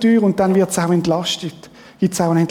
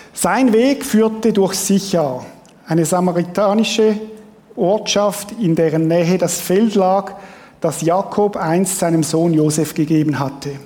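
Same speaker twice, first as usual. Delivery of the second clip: measured scripture reading with pauses between phrases; storybook Bible reading; 3 semitones lower than usual. Real, not acted. Preacher reading John to the congregation like to his children, measured storytelling. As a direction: read it out slowly, as a bedtime story. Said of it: "Und ich lese euch vor, wie ich meinen Kindern".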